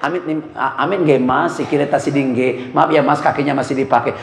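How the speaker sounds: low, soft, humble Javanese apology; bow your voice down, apologising gently; a mild soft old-fashioned Solo apology; old Solo politeness. Retold or imitated. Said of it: "kalau kakinya dipijat".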